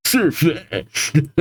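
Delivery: lightly imitated Pokémon cry; Sirfetch'd dub. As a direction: call it out like the dubbed Pokémon. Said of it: "I love the dub of him".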